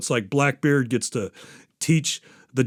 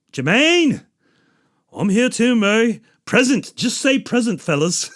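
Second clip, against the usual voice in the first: high, put-on New Zealand manager voice calling roll; fussy manager taking attendance in a raised voice; Murray roll call; 8 semitones higher than usual. Manager Murray taking roll of his band, high fussy voice. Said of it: "Murray runs the meetings. He's like".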